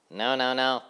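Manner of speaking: high busy housefly chanting; sing-song of a tidy little fly. A narrator's reading. Housefly sweeping the road, chanting brightly and high.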